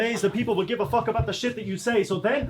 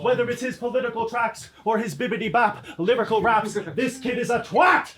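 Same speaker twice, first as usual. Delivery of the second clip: passionate yell. Acted. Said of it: "a lot of passion in the voice there".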